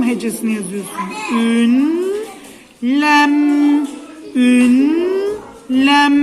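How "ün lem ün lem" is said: "Ün", "lem" spaced apart, each loud; syllable by syllable. Shown as a demonstration. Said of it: "Önce ün hecesini yazıyorsun". (heceleyerek, "ün" ve "lem" ayrı)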